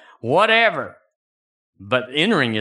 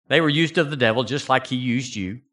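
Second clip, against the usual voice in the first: normal talking voice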